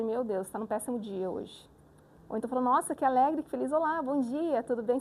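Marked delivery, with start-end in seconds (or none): 0.0-1.7 mildly downcast, slow and a little lower; imitated bad-day telemarketer. Teacher recalling a gloomy telemarketing call, mildly downcast. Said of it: "Quem nunca atendeu um telemarketing aí". 2.6-5.0 lightly cheerful phone greeting; imitated smiling voice. Teacher imitating a happy telemarketer's greeting, smiling voice. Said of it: "Você sabe que a pessoa tá sorrindo".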